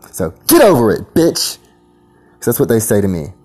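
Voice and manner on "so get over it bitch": louder, higher jeering shout; mimicking a cop's taunt, loud and high; mock cop snarl. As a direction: throw it at him like a sneering cop. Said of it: "That's how they sound".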